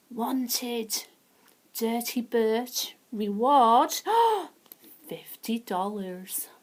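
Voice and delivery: loud, measured town-crier reading; poster proclamation. Pretend. Narrator showing Frank the wanted poster, proclaiming. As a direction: proclaim each item boldly, gasping at the reward.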